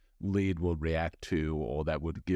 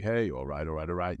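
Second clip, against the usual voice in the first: Matthew McConaughey; 2 semitones lower, faster than usual. Retold or imitated. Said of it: "Matthew McConaughey".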